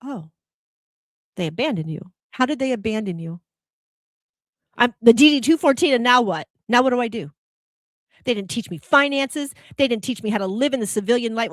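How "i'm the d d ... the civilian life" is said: raised, louder, exasperated plea as the veteran; worked-up veteran. Retold or imitated. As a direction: pour out the veteran's frustration, voice raised. Voicing veteran's lost feeling.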